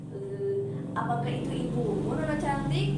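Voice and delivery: high, loud startled query; surprised question. Acted. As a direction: act taken aback. Shopkeeper surprised by the mother.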